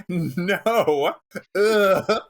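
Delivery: high, slow disgusted protest; a hammed-up outraged brother; indignant protest. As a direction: recoil in horror at the idea. Craig protesting, acted quote.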